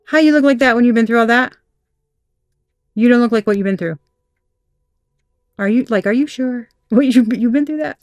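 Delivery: gawk at someone who looks too good for what they survived; shocked disbelief. Retold or imitated. People staring at the querent, stunned and disbelieving. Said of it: "shocking news type shit".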